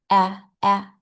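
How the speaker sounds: "ah" as the open vowel in apple; short A sound. Shown as a demonstration. Teacher demonstrating vibration in the A sound, short A sound. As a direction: say "ah" twice, short and separate, mouth spread. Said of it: "There is a little bit of vibration".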